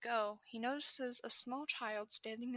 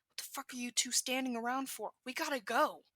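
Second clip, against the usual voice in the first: urgent shout, louder at the end; 2 semitones higher, 5 dB louder than usual. Acted. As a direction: yell at them to get moving. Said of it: "Katsuki shouts".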